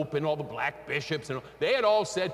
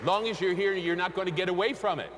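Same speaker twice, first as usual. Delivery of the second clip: fervent preaching; 3 semitones higher than usual. Acted. Preaching at full force.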